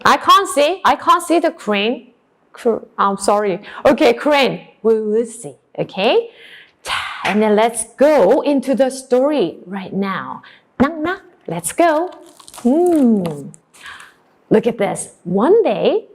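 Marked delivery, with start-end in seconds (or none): none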